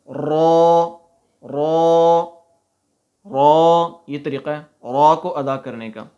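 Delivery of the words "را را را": را said full and heavy, tongue behind the teeth. Shown as a demonstration. Teacher showing pupils, را said heavy. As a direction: fill the mouth on را. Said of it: "ان کے پیچھے لگانا ہے".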